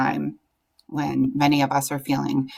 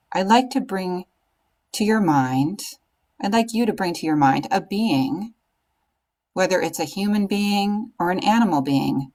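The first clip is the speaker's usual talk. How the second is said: calm meditation guide with long pauses; guided meditation; 3 semitones higher than usual. Acted. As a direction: guide them gently into stillness, phrase by phrase.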